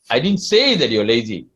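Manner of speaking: weight the word say; stress on say. Shown as a demonstration. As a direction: say leaned on, hinting at unspoken thoughts. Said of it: "I didn't say, but maybe I think".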